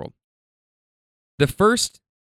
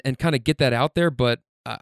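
ordinary talk, nothing marked

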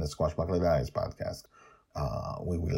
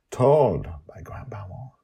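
whisper; 3 semitones higher, 5 dB louder than usual. Acted. Naming the story's teller.

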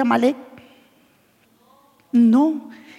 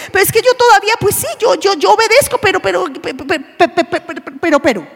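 stammering excuse; 2 semitones higher than usual. Acted. Voicing a hesitant excuse-maker.

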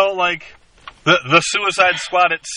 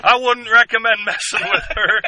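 Deadshot line impression; 5 semitones higher than usual. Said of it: "He goes over".

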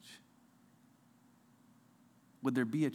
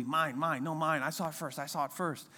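toddlers squabbling; 4 semitones higher than usual. Retold or imitated. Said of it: "like little toddlers running around".

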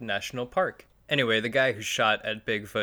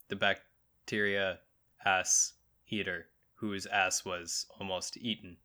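halting, deliberate; 2 semitones lower, slower than usual. Pretend. Labouring a tangled joke.

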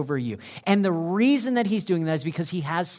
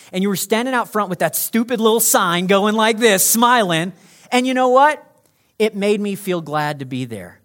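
louder, higher, excited retelling; excited testimony; 5 semitones higher, 8 dB louder than usual. Acted. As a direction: build the stranger's joy loudly. Rando's grateful speech in heaven.

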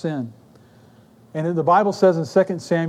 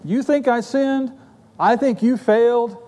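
callous self-justifying; 5 semitones higher than usual. Retold or imitated. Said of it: "His attitude basically is this".

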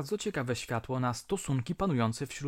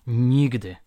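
a loud, sharp refusal called out; loud cry; 9 dB louder than usual. A narrator's reading. Young wife crying out her refusal to the mediator, loudly. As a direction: fling the word out as a flat refusal. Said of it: "zawołała".

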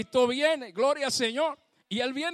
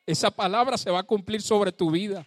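louder declaration; 5 dB louder than usual. Shown as a demonstration. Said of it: "¿sabes una cosa?".

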